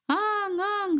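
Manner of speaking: lightly imitated child crying; child's wail. A narrator's reading. Child crying inside the room, mildly imitated wail. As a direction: stretch out a mock wail. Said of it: "울고 있었어요".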